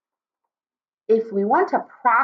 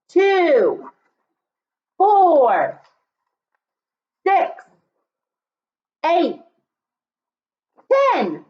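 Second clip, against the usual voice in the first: counting aloud; 6 semitones higher, much slower than usual. Shown as a demonstration. Teacher leads counting aloud.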